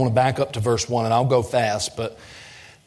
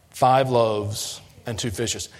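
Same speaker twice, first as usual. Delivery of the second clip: slow, doubtful and grudging; faith-lacking; slower than usual. Shown as a demonstration. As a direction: say it like you barely believe it. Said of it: "they said it in a very faith-lacking way".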